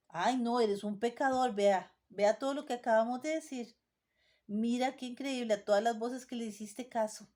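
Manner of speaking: jab the sinner with the accusations; accusing voice. Acted. A preacher voicing Satan accusing the sinner: mild scolding. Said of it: "la voz del acusador".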